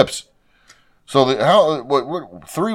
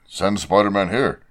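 put-on Indian accent; 4 semitones lower, 4 dB quieter than usual. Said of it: "I don't know why I give it an Indian accent".

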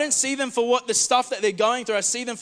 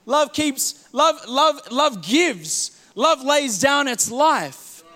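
slow emphasis; 5 semitones higher, much slower than usual. Acted. Slowed for emphasis.

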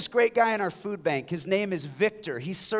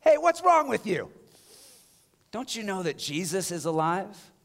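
porch practice shout. Shown as a demonstration. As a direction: belt it from the porch. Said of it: "just practice".

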